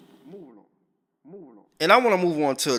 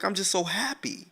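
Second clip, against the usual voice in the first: retold crying; 6 semitones higher, 8 dB quieter than usual. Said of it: "the girl started crying".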